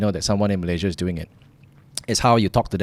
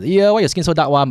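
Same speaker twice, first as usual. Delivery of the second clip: casual teasing; 6 semitones higher than usual. Acted. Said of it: "just very casual making fun".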